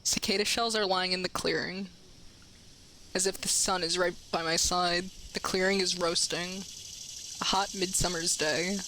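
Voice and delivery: hushed novel narration; story narration. Acted. Reading the visual novel aloud.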